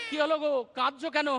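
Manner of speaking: normal talking voice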